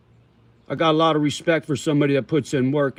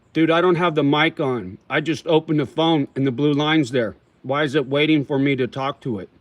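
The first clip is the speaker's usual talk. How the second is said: chewing while talking; mouth full. Real, not acted. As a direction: talk through a mouthful of tobacco. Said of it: "Sorry, I'm chewing".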